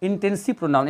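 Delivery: very slow quiz-style question; slow quiz read; slow exam question. Shown as a demonstration. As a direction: pose it slowly like an exam. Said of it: "competition में पूछ देता है कि".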